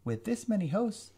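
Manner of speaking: high, loud sneering alien tyrant; sneering villain. Acted. Visser gloating to the prince, loud high sneer. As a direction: gloat over the weak humans. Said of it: "Visser Three sneered".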